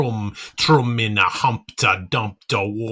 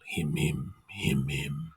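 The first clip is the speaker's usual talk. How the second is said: much softer and lower, barely there; faint echo; 8 semitones lower, 13 dB quieter than usual. A narrator's reading. Narrator voicing the maidens' cry as a faint, low echo. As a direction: breathe "him him" as a distant echo.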